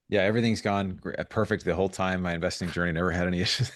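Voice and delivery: mock-cheerful, trying not to laugh; deadpan irony about a bumpy ride; sarcastic. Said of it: "I just can't say it with a straight face".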